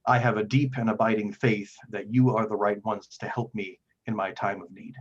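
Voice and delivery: lightly voiced grave cleric, pausing heavily; weighty, formal plea with emphatic phrase openings; solemn Father figure. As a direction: confide painful news with measured earnestness. Game master voices troubled Father Geno.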